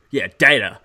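"data" said the American way; imitated American accent. Podcaster imitates Blackpool lad's odd American words, American accent. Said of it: "clearly an American accent".

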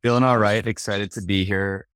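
hoarse from a sore throat. Real, not acted. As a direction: speak through a sore throat. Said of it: "Definitely a bit of a sore throat".

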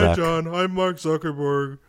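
lightly voiced tech CEO; a hint of a cheery robocall CEO; Mark Zuckerberg impression. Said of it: "that's actually sounds like him".

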